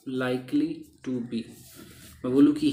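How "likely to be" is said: drawn out slowly; slow teaching demo. Shown as a demonstration. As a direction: say "likely to be" slowly for learners. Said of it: "मैं आपको सिखा ही देता हूँ फटाफट". ("likely to be" धीरे-धीरे सिखाते हुए)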